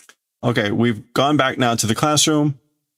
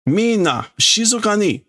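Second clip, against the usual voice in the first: hushing classmate; 11 semitones higher than usual. Acted. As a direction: call the class to order. Kid hushes the class.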